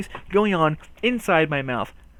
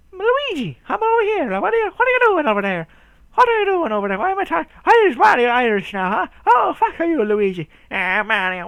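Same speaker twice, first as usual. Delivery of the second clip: very high, loud squawking character; hammed-up shrieky video game impression; cartoon Mario-brothers voice; 13 semitones higher, 7 dB louder than usual. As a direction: yell across to your brother in a squeaky put-on voice. Acting out Mario and Luigi calling.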